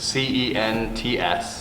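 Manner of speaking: slow, letter by letter; over enunciating. Shown as a demonstration. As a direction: spell it out slowly.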